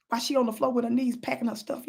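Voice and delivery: ordinary talk, nothing marked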